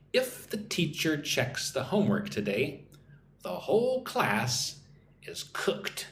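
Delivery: teacher's measured model sentence, phrase by phrase; listen-and-repeat model. Shown as a demonstration. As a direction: model it for learners, pausing between phrases. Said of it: "listen and repeat".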